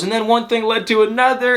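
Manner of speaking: high-pitched mock crying delivery; mildly imitated hysterical upset; imitated tearful retelling. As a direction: raise the pitch, as if retelling through tears. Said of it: "She was crying".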